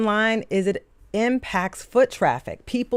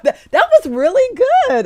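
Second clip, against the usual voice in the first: laughing; 13 semitones higher, 5 dB louder than usual. Real, not acted. Laughing at the co-host's bit.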